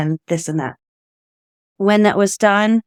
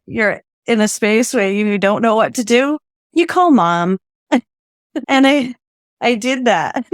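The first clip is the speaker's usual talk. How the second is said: ordinary talk, nothing marked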